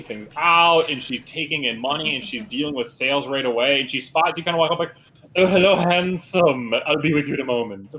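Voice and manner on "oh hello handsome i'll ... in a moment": lightly voiced flirty saleswoman; flirty merchant. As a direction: coo it at a customer.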